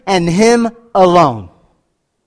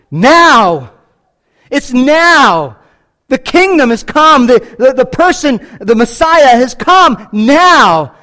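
"Now!" shouted, louder and higher; emphatic NOW; 5 semitones higher, 5 dB louder, slower than usual. Real, not acted. Preacher stressing the Greek word order, loud and emphatic. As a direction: hit "now" hard, then slow "has come now". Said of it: "In the Greek, it's emphatic".

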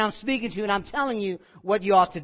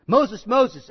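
louder call of the name; louder calling of the name twice; 4 semitones higher, 8 dB louder than usual. Acted. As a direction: call out to Moses.

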